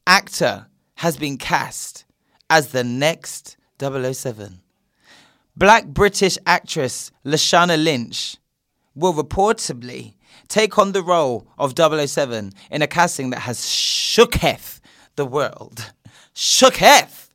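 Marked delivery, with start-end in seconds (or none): 1.2-15.9 news read. Real, not acted. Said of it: "I'm reading again from The Voice". 16.3-17.3 mock awe. Real, not acted. Echoing the article's word.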